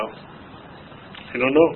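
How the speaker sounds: slow, whispered, at a loss; mock helpless whisper. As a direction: breathe it out helplessly. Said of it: "I go".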